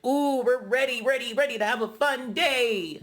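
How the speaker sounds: put-on high, giddy sing-out of excited girls; happy excitement. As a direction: mimic them all thrilled for a big day. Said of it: "They are so happy".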